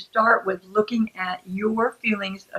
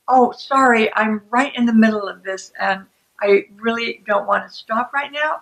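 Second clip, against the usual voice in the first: easy, considerate apology without defensiveness; factual, caring. Acted. Partner offers to empty the dishwasher later, caring. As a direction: explain kindly and matter-of-factly. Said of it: "That is the factual, caring, non-shame-based communication".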